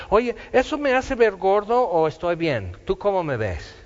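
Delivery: mock-worried asking a friend if they look fat; anxious self-conscious question. Someone asking a friend if the outfit looks fat, mildly fretting. Asks friend for honest opinion.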